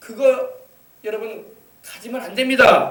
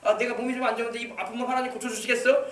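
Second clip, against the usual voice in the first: softer, skeptical questioning, imitating a doubter; mock doubting; 5 dB quieter than usual. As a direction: voice the doubter's questions under the preaching volume. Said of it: "자꾸 의심을 하는 거야".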